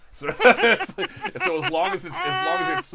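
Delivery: laughing, pitch jumping way up. Real, not acted. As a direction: giggly laugh through words. Laughing at co-hosts' joke.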